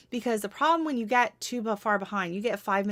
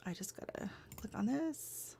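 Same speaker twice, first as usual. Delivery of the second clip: whispering; 12 dB quieter than usual. Real, not acted. Muttering to herself at the screen.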